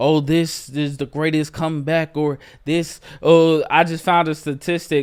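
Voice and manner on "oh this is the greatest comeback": normal talking voice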